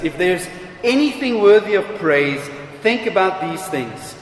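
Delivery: measured, solemn reading of a Bible passage; scripture reading. Acted. Preacher reading Philippians to the congregation, solemn and measured.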